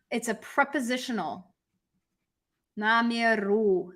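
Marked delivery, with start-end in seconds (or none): 2.8-3.9 Namieru said slowly, final u drawn out; stress on final u. Shown as a demonstration. Teacher showing the old ending, final u of Namieru stressed. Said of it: "and it's stressed".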